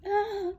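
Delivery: sudden loud, high "ah"; high emotional cry. Real, not acted. Reader struck by the song she heard, high emotional cry.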